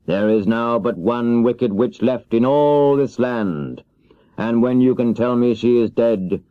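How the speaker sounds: slow, weighty wizard decree; solemn wizard. Acted. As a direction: pronounce it like a final judgement. Oz states terms.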